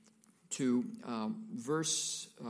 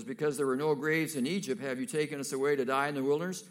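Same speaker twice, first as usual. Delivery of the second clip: louder, fast, accusing; heated complaint; 3 semitones higher, 7 dB louder, faster than usual. Acted. Israelites hemmed in by Pharaoh, hurling blame at Moses. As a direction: really lay it on Moses.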